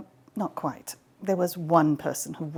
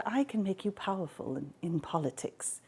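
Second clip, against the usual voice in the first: soft temptation; 8 dB quieter than usual. Acted. Hera's mind-voice bribe.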